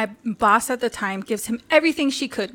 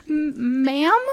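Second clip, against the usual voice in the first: stuttering, timid question; halting mock-nervous rise; shaky voice; 3 semitones higher than usual. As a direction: imitate a shaken client's stammer. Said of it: "his voice was shaky".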